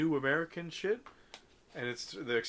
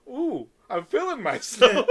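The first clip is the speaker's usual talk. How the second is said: louder and drawn out, slow, showing off; hyped-up strut; 8 semitones higher, 11 dB louder, slower than usual. Pretend. Teasing Bay Area boys, slow loud hyped strut. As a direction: ride the ooh, savour feeling myself.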